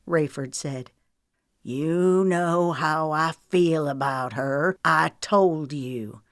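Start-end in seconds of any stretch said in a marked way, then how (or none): 1.6-6.2 slow, quiet menace; drawn-out, deliberate threat; soft and malicious. A narrator's reading. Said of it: "The words were spoken softly, maliciously".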